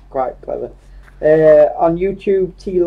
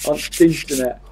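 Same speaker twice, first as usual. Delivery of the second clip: Yorkshire dialect. Shown as a demonstration. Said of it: "make his own words up in Yorkshire".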